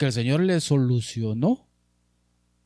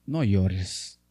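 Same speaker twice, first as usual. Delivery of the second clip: soft low "No llores", gently consoling; tender comfort; 5 semitones lower, 4 dB quieter than usual. Pretend. Jesus to a weeping woman, soft and consoling. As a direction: hush them like Jesus would. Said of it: "¿Y qué te va a decir?".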